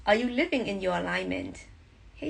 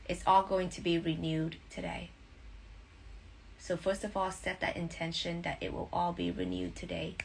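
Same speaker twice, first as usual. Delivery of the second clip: guided meditation. Acted. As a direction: breathe them into calm.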